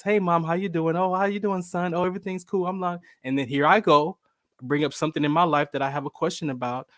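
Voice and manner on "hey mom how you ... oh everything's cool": lightly acted pleasant phone chat; imitated easygoing catch-up with mom; nice, friendly greeting. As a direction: open sweetly, pitched a little up. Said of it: "would start off very nice".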